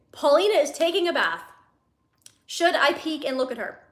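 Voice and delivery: stressed re-read of "Paulina is taking a bath"; clarifying re-read. Acted. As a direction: spell out "peek and look at her" with emphasis. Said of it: "now I realize what he's saying".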